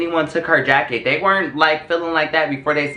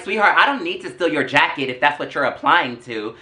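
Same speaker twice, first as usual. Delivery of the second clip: mock-sweet, pointed retort. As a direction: set her straight with understated attitude. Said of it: "I said it just like that in that tone".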